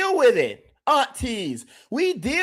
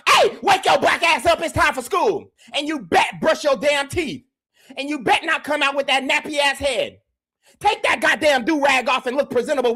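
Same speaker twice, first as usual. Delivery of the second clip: strict mama; 3 semitones higher than usual. Retold or imitated. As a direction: bark like a mama waking her son for school. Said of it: "we grew up".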